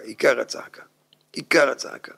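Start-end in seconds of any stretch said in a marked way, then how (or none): 0.0-0.8 whispered emphasis. Shown as a demonstration. Rabbi confiding the key point to listeners, whispered. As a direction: whisper עיקר הצעקה low and breathy. Whispered then repeated voiced.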